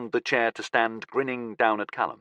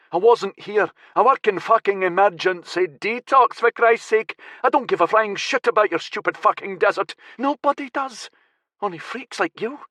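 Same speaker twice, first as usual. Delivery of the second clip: angry captive; 10 semitones higher than usual. Acted. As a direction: spit contempt at the fanatic. Callum ranting at captor.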